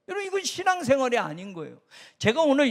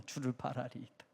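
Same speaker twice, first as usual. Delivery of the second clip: softer, calmer reading of 주를 바라리이다; comfortable low tone; 10 semitones lower, 14 dB quieter than usual. Shown as a demonstration. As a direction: say it in an easy listening tone. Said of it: "여러분들이 듣기 편한 톤으로". (듣기 편한 낮은 톤으로 주를 바라리이다)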